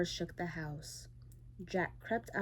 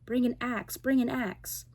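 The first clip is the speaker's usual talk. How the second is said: loud, higher urgent calls; urgent shout; 5 semitones higher, 5 dB louder than usual. A narrator's reading. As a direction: yell for the axe in panic. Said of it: "he called out".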